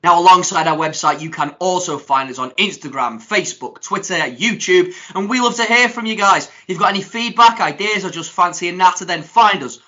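lively social media plug; promo read. Real, not acted. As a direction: invite listeners in, reading with energy.

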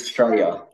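"Straya", short for Australia, starting on "stray"; clipped Aussie slang. Shown as a demonstration. Host repeating the quiz word, "Straya" said as a short form. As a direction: say "Straya" without the opening "Au" or the "l". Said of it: "It's a short".

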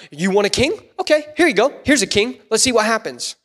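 lightly mocking teacher, pitch lifting; cruel teacher. Shown as a demonstration. Preacher reads God as a cruel teacher granting a king, lightly taunting. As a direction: hand it over with a mock-obliging, testing tone. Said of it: "God is, like, cruel teacher".

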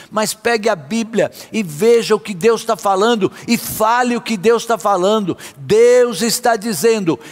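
forceful, declarative sermon delivery; emphatic preaching. Real, not acted. Preacher urging believers to speak to their fears, emphatic preaching. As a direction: preach it with conviction, phrase by phrase.

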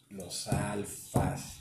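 alfas stretched very slowly; drawn out. Real, not acted. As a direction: drag out "alfas" slowly, for effect. ("alfas" muy alargado y lento)

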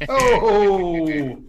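loud, high, drawn-out whoop; excited cheer. Real, not acted. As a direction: crow over a great dice roll. Cheering a good dice roll.

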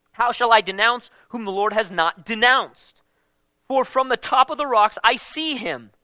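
solemn Bible reading, slowing into the last lines; proclaiming the prophecy with rising weight; scripture reading. Acted. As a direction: read it out as prophecy. Reads Balaam's prophecy aloud.

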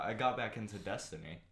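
talking while chewing gum; words around gum in mouth. Real, not acted. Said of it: "Can you stop chewing gum?".

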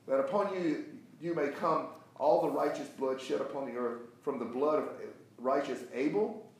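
emphatic preacher reading, key words punched; forceful scripture reading. Acted. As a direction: read it out as a rebuke, deliberately. Reads scripture forcefully to class.

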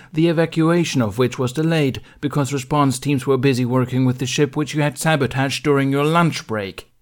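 loud, firm dressing-down; stern Jedi master. Acted. Mace Windu scolding Ben before the council. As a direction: read the charges like a cold judge.

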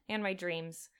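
quiet, aching sadness; achingly sad. Acted. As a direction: say it softly, heartbroken. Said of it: "her voice was achingly sad".

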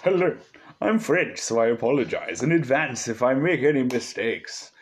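playful mock French accent. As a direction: read in a hammed-up French accent. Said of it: "so you gotta do a French accent".

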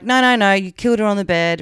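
imitating a dismissive, accusatory detective; mock accusing. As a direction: cut him off like an accusing cop, lightly acted. Retelling police accusing the husband.

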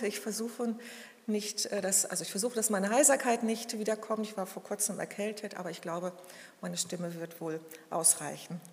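words round a cough drop; speaking with a lozenge in the mouth; sucking a throat lozenge. Real, not acted. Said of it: "entschuldigt bitte das Hustenbonbon heute in meinem Mund".

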